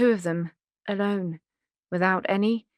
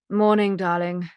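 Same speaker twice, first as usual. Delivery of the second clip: chirped; 3 dB louder than usual. Acted. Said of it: "Mona chirped".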